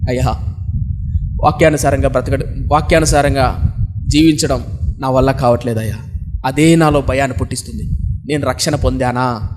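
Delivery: mild crying, pleading for an answer; crying in fear. Acted. Young woman confessing her fear to the pastor, low and tearful. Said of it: "భయంకరంగా ఏడుస్తుంది".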